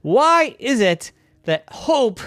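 a hoop fed up with its friend; a touch of sulky anger; angry hoop. Acted. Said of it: "I'm getting angry".

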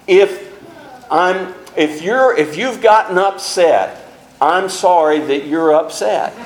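mock non-apology, sorry rising smugly; fake apology. Preacher imitating people's non-apologies, smug and dismissive. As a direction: imitate a hollow apology that blames. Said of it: "I've heard a lot of these".

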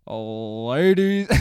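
hammed-up ring announcer opening; boxing announcer. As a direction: boom it out like a mock fight-night host. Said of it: "acted like a fucking boxing announcer".

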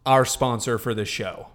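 loud halftime-show host, proclaiming; put-on announcer accent. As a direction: announce it big like a sports show opener. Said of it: "You did an accent".

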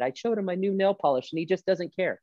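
high-pitched mock-tearful complaint; put-on high woman's whine; mock crying wife. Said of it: "she's crying and counseling".

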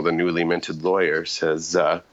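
ordinary talk

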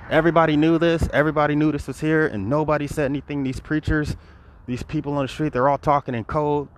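high, loud, indignant outburst; livid. Real, not acted. Speaker recalling nobody spoke up, livid. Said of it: "I was livid".

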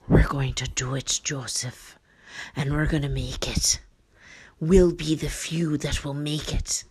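lightly acted solemn resolve; measured, with weighty pauses between phrases; wife's voice. Wife steadying Joseph for the journey, understated solemn resolve. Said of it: "the wife's like".

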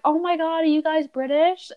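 high, excited gushing question; impressed gatekeeper. Retold or imitated. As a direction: gush like a starstruck stranger. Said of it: "she was like".

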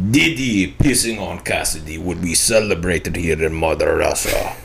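slow, shaky attempt at a Russian accent. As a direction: read it out in a mock Russian accent. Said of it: "do this in a Russian accent".

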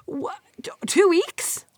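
breathless whispered disbelief; stunned whisper. Real, not acted. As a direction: whisper it, floored by the unfairness. Disbelief at light punishment.

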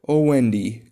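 loud exclamation to Wendy; eager childish outburst; excited cry. A narrator's reading. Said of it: "cried Tootles".

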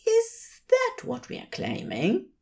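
high, arch question from the angel; Aziraphale's voice. A narrator's reading. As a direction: tease him sweetly. Aziraphale teasing.

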